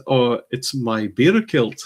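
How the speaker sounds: slow, lightly put-on Scottish accent; a mild mock Scottish drawl on the punchline; strong Scottish accent. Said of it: "didn't have a strong Scottish accent like that".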